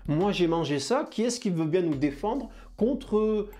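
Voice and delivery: a hint of a buddy calling his mates; cell calling the troops. Dendritic cell calling the defence cells to do the job. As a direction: hail the defence cells casually. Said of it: "Il va falloir que j'aille dire".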